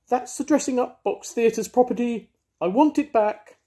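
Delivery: a cat in a theatrical tantrum; diva rage. Acted. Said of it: "terrible artistic rage".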